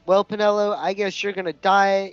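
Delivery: laughing. Acted. Doomed teasing, laughing.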